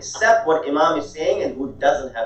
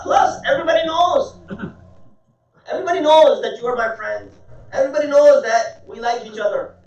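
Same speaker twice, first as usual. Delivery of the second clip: worked-up, higher-pitched indignant outburst; enraged; 8 semitones higher than usual. Retold or imitated. Enraged guest scolds his host for calling him back, angry high-pitched rant. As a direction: protest angrily, voice pitched high throughout. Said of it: "He was enraged".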